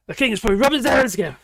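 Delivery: fast, loud gleeful rush; excited. Real, not acted. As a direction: blurt it out with glee. Gleeful guess about the King.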